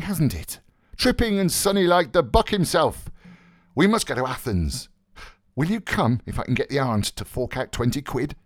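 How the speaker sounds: high, theatrical gay chatter; Buck Mulligan's gay voice. Acted. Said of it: "Buck Mulligan's gay voice went on".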